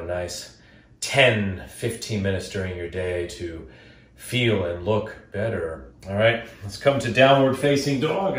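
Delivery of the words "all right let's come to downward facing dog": flat robot voice instruction. Real, not acted. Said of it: "I sound like a robot".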